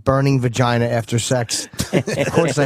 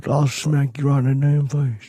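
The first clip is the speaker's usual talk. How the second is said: Southern-accented mock threat; Southern character voice; Eugene, Southern accent. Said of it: "I heard the accent there".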